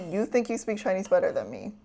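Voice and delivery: soft, unvoiced, playful whisper; teasing whisper. Real, not acted. Streamer teasing chatter Thunder Monty, sly whisper. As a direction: whisper it like a sly secret taunt.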